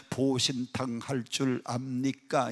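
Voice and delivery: mock-polite long question; slow full question. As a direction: spell out the long polite Seoul way. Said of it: "여덟 글자로 묻는데".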